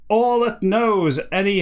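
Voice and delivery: hammed-up Guernsey sailor's roar; roaring Guernsey accent. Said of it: "He doesn't do the accent when he's not roaring".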